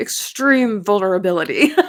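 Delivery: booming monster truck rally announcer voice. Speaker repeating their own point for emphasis, monster truck voice. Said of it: "I hear it in like monster truck voice".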